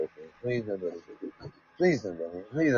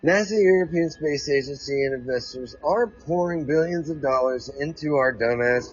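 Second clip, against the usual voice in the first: reading a space article to listeners, slightly raised; article read-aloud. Acted. Host reading a space article to listeners, reading aloud. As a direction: read it out like a news item.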